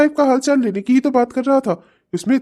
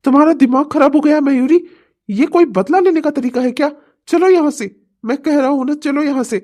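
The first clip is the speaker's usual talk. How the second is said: furious husband ordering wife home; angry demand; 3 semitones higher than usual. Acted. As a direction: push her to leave, furious.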